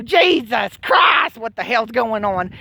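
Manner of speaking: drawn-out slow outcry; mock anguished cry. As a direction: wail it out, slowed down. Retold cry of despair.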